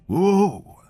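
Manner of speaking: high, excited whoop; enthusiastic yell. A narrator's reading. Sailor cheering the new gunner, excited whoop. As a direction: cheer the gunner's burst out loud. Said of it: "yelled the black sailor enthusiastically".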